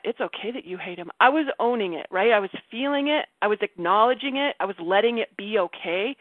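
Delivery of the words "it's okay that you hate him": low, soft reassurance; self-reassurance. Retold or imitated. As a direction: soothe yourself, dropping pitch and volume. Retold reassurance to herself.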